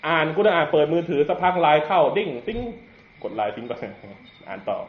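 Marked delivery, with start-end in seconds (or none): 2.2-2.6 light "ding, ting" alert noise; imitated phone chime. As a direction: mimic a message notification.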